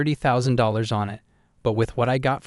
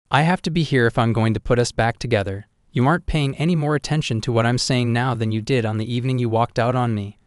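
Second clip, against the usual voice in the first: pushing her point louder; raised, insistent voice; 3 dB louder than usual. Acted. Ruby insists, growing loud.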